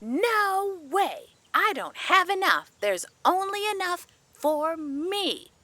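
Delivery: high, soft bratty refusal; selfish refusal. A narrator's reading. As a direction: refuse like a stingy storybook brat, pitched high. Mean girl refuses crow food.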